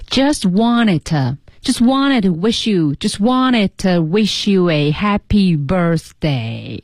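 "just wanted to wish you" slowly, with the t sounds swallowed; slow linked reading. Shown as a demonstration. Co-host drilling the phrase slowly for listeners, careful linking. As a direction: build up the phrase bit by bit, slowly. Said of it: "注意".

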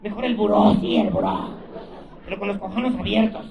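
high, loud mock cries; hammed-up lusty demands; mock moaning woman. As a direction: beg it like the woman next door.

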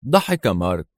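plain reading voice

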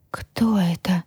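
stunned whisper. A narrator's reading. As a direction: whisper it slowly in disbelief. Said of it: "прошептала я". (потрясённый шёпот)

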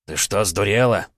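plain reading voice

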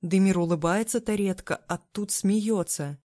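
ordinary delivery

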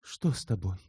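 low, soft, concerned; caring question. Acted. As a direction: ask gently, worried for him. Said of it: "заботливо спросила Елена".

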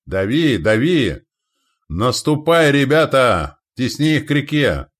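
loud, high battle cries; commander's shout. Acted. Commander driving men to the river, shouting. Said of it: "слышался крик командира".

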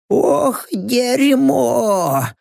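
put-on a pained groan in a rough old man voice. Rocks sits down wounded, groaning. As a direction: groan it as you sit down hurt. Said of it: "простонал Рокс".

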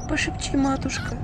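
high whimpering plea; mild tearful high whimper; sobbing plea. Acted. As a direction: sniffle and beg for help. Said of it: "схлипнул объект вожделения".

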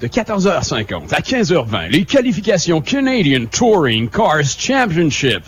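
mock know-it-all race announcer's accent; put-on connoisseur accent. Radio host faking expertise while reading the qualifying schedule, put-on connoisseur accent. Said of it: "un accent connaisseur".

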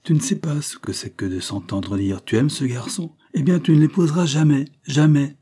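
outburst rising to high, loud "jamais"; sudden exclamation. A narrator's reading. Sidonie protests to her friend about the marriage ban, exclaiming. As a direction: build into an aggrieved cry. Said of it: "s'écria tout à coup Sidonie".

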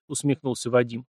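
usual speaking voice

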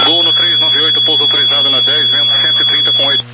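loud, insistent radio call; calling out loudly. Real, not acted. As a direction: raise your voice to reach the pilot. Tower repeats landing clearance loudly.

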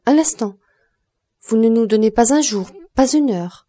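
high, loud protest; dismayed pleading. A narrator's reading. Julie begs for more time.

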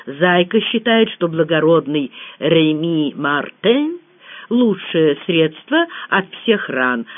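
ordinary delivery

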